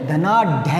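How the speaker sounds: धनाढ्य with ढ्य as half ढ plus य; correct form. Shown as a demonstration. Teacher corrects धनाढ्य for students, careful ढ्य. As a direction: say धनाढ्य ending dhə-naa-ḍhya. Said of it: "धनाढ्य नहीं".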